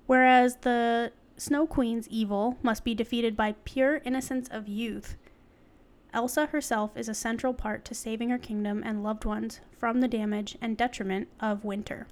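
measured, articulate reading; article read-aloud. Real, not acted. Host reading an article to co-host, read-aloud. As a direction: read it out like a written essay.

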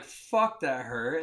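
loud yelp of pain; pained curse. Retold or imitated. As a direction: cry out as if just bitten. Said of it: "I'm like".

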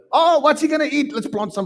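high flustered wondering; mock confused God. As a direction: play God making it up as he goes. God voiced still improvising.

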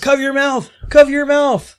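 high urgent yell; urgent warning shout. Retold or imitated.

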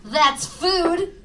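slow singsong airplane feeding voice; airplane spoon game. Acted. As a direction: play airplane with the spoon, teasing. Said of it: "Here comes the airplane".

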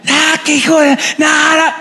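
sudden high shouted curse; cursing outburst. Acted. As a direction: spit out the curse in frustration. Peter cursing in retold denial.

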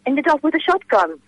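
lightly put-on Welsh accent. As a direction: tell it in a playful Welsh accent. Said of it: "That's a wonderful Welsh accent".

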